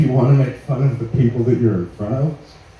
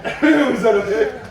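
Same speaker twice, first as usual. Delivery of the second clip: sheepish check; 11 semitones higher, slower than usual. Real, not acted. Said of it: "gotta come back and be like".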